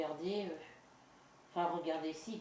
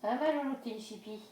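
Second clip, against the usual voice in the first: pet talk; 5 semitones higher, 3 dB louder than usual. Real, not acted. Cooing to her pet.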